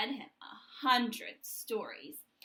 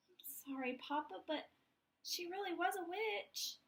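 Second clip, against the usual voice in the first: softer, sheepish little voice; soft apology; 5 semitones higher, 5 dB quieter than usual. Acted. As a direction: apologize quietly but insist. Chicken apologizes to Papa.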